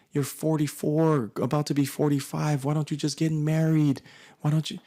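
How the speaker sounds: mother pestering her son to get married; nagging mom. Retold or imitated. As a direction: nag him like his mother about marrying.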